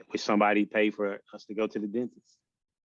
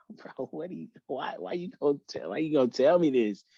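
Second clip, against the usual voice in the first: crying while laughing; 4 semitones higher than usual. Retold or imitated. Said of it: "And I'm still crying".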